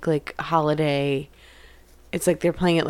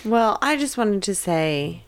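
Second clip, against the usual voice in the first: dramatic; 3 semitones lower than usual. Acted. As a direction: pause for drama, then deliver. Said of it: "in just, like, a very dramatic way".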